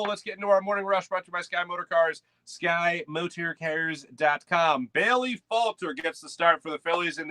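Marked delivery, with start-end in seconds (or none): 0.0-4.9 announcer-style sponsor plug; sponsor read. Acted. Host brings in the morning rush, in a sponsor-read voice. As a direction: draw out the web address like an announcer.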